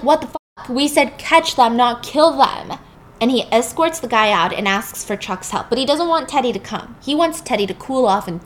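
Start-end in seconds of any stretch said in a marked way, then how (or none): 0.0-2.8 raised, slower voice, in disbelief; exasperated guard. Retold or imitated. Confused guard scolding Teddy, raised and slow. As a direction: demand to know why he went so far.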